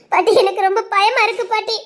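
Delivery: frightened and on the edge of crying; a tearful confession of fear; scared, tearful. Acted. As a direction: plead with grandma through tears. Frightened girl tells grandma she is chased.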